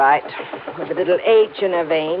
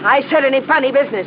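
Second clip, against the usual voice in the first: snapped warning; 6 semitones higher, much faster than usual. Acted. Bessie repeats her warning.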